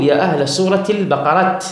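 البقرة ending in a plain t instead of h; unvowelled final T. Shown as a demonstration. Teacher quoting an Arab caller, البقرة closed with a t. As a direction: stop on البقرة with a t. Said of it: "يعني التاء الساكنة ولم يبدلها هاء".

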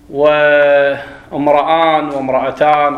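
وامرأان said with the hamza dropped, then وامرأتان; a teacher showing a joined hamza to a class; hamza elided. Shown as a demonstration. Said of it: "شوف هنا في درج الكلام ما قريناها".

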